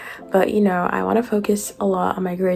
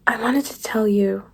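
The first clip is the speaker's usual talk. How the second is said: whispering; 2 semitones higher than usual. Acted. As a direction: whisper it tenderly. Tender line in acted scene.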